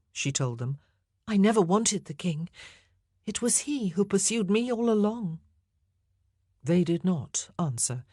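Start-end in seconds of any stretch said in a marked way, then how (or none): 1.3-5.4 higher, fragile Anne voice sinking to a whisper; a frightened queen half-whispering her wish to be done; hushed, higher voice of a queen facing death; condemned queen, higher. A narrator's reading.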